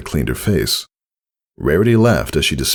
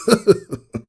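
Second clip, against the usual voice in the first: laugh. Acted. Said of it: "Tycho laughed".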